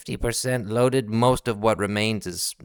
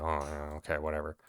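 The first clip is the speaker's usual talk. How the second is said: low, quiet, couldn't-care-less; quiet, dismissive guard; bored guards; 7 semitones lower, 15 dB quieter, faster than usual. Acted. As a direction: shrug them off. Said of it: "and they're like".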